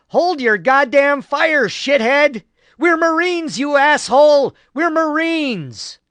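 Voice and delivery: high, loud, desperate cursing yell; furious bellow. A narrator's reading. Wounded Hansen screams at marines firing on him, furious bellow. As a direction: roar it at your own side to stop the shooting. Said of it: "Hansen bellowed out his fear, pain, and frustration".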